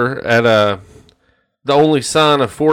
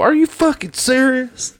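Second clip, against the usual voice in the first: angry customer; 11 semitones higher than usual. Retold or imitated. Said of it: "I heard him go".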